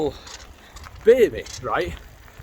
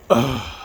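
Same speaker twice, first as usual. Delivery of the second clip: audible sigh; 4 semitones lower, 4 dB louder than usual. Retold or imitated. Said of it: "an audible sigh".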